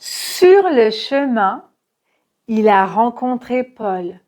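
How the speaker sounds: Sur le chemin slowly, rising at the end; slow rising group; slow model. Shown as a demonstration. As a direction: draw out the phrase. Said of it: "c'est un son nasal".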